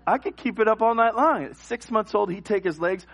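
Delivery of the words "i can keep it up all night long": put-on higher-pitched defiant baby voice; hammed-up infant defiance; stubborn baby. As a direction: taunt like a strong-willed infant. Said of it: "he'd be like".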